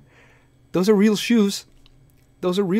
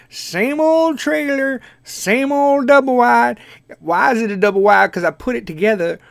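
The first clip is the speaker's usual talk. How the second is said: a lightly voiced, slightly higher country grandpa; country old man voice; 3 semitones higher than usual. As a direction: ramble like an old trailer-park grandpa. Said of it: "old man voice ... country".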